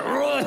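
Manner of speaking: high mock dog bark; a chunky little woof sound; fat bark. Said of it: "It's a fat bark".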